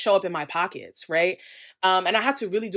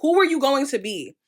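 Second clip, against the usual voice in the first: louder and higher, fired-up rallying; passionate rant; 4 semitones higher, 4 dB louder than usual. Real, not acted. Urging followers the world is waking up, loud and fired up. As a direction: rouse the audience like a protest speech. Closing rallying cry against capitalism.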